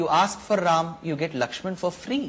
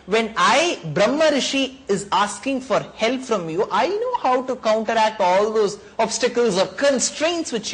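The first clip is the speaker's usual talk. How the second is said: higher, louder sage asserting his rank; commanding sage; 5 semitones higher, 3 dB louder than usual. Acted. The Brahma Rishi insists the king send his son, commanding. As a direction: demand it with authority.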